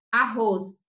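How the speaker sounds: "arroz" said as one word with one R sound; single R sound. Shown as a demonstration. Teacher modelling the pronunciation of arroz, natural single-R sound. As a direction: say "arroz" joined up, no break at the RR. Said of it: "a pronúncia é como se fosse só com um único R".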